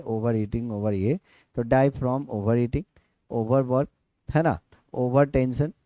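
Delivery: slow, deliberate classroom explanation; slow teacher explanation. Acted. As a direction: spell it out slowly for students. (कक्षा में धीरे-धीरे समझाते हुए)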